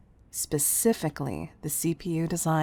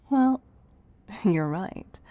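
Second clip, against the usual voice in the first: louder, higher burst into a laugh; amused laugh; 3 semitones higher, 6 dB louder, slower than usual. Acted. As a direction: laugh it off, caught out. Amused admission.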